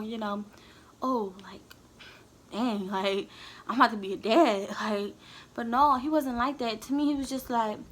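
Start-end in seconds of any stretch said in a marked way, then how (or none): 1.0-4.7 mock hushed whisper of amazement; awed dad. Imitating the reaction she wished he had, hushed awe. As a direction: breathe it out like the news is sinking in. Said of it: "he could have been a little bit more".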